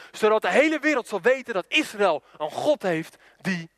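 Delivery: bold, measured Bible proclamation; solemn declamation. Acted. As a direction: proclaim a challenge in God's name. Declaims David's answer to Goliath. (plechtig proclamerend, als David tegen Goliath)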